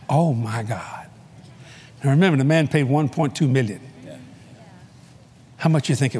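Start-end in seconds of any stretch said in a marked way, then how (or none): 0.1-1.1 slow, hushed whisper of disbelief; stunned whisper. Retold or imitated. Seeing the cabinet at auction, whispering in shock. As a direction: breathe it out, shocked.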